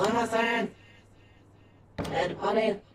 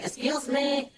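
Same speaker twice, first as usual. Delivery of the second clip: "Excuse me!" called out high and bright; hailing a shop worker; calling out; 8 semitones higher, slower than usual. Retold or imitated. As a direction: call "Excuse me!" to someone in the back. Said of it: "Well, they're saying".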